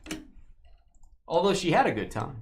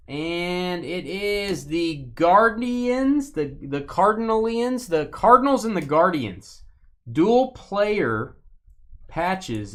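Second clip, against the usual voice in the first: higher, louder, stretched-out announcement; excited reveal; 5 semitones higher, 5 dB louder, slower than usual. Real, not acted. Revealing the dual patch card to viewers, loud and excited. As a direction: build the reveal up big and slow.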